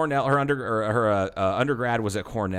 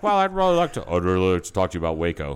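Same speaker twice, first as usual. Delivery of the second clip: mock Janet Reno; 3 semitones lower, faster than usual. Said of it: "Janet Reno was like".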